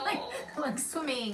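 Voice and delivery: giggling through the words; laughing. Real, not acted. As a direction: laugh while saying it. Laughing at pool mix-up.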